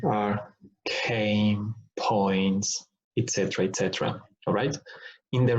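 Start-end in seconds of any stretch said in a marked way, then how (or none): 0.8-2.9 CAME and POINTS started with a puff of air; aspirated plosives. Shown as a demonstration. Teacher listing more examples, CAME and POINTS aspirated. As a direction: release breath after the K of CAME and P of POINTS. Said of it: "other words with aspiration".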